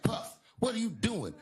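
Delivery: high-pitched, acted disbelief; shocked question. Comic walking in on Puff, high shocked question. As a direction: pitch it way up, aghast.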